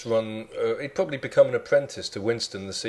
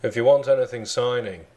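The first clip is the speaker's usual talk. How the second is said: attempted Liverpool accent, measured delivery; a famous drummer. Co-host as a band member telling off fans, Liverpool accent. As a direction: do a deadpan Scouse rock star. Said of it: "that's much better than me".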